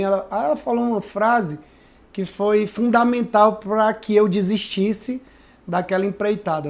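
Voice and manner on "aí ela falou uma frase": ordinary delivery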